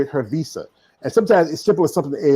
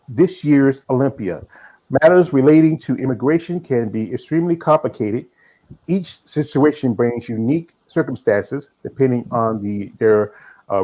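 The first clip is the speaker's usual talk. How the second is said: reading a statement. Acted. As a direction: read the letter out formally. Reads a statement aloud.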